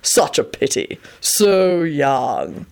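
drawn-out mock pity; gleeful sphinx. A narrator's reading. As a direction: savour the false sympathy. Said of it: "announced gleefully".

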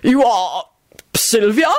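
hesitant, doubtful question; halting disbelief; unimpressed. A narrator's reading. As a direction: ask politely but unimpressed. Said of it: "he was obviously unimpressed".

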